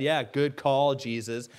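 sarcastic. Retold or imitated. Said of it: "they're sarcastic".

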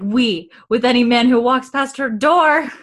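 high, loud character voice; imitating cheeky Fergus. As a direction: push it up and out for the punchline. Voicing Fergus's cheeky answer.

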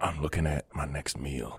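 low, soft menacing growl; gritty mascot voice. Acted.

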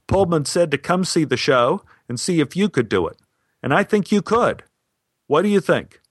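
friendly phone pitch, retold with good cheer. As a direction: lightly imitate a cheerful caller. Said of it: "He seemed full of good cheer".

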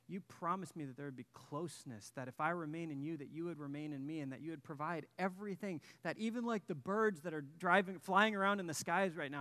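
heated plea to God, building in pitch and volume; throwing promises back at God, increasingly worked up; retold yelling. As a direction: start controlled and grow into a mock rant. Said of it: "like, yelling and screaming".

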